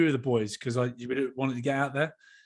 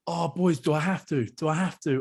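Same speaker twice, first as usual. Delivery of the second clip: mock nervous whine; 3 semitones higher, 5 dB louder than usual. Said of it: "he's still up there going".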